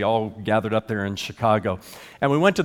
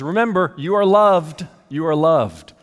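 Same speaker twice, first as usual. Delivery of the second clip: emphatic pastor quote; 3 semitones higher, 5 dB louder than usual. Retold or imitated. Quoting the pastor's closing line.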